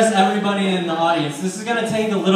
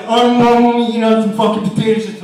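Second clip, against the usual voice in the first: put-on girlfriend voice; 2 semitones higher, 7 dB louder than usual.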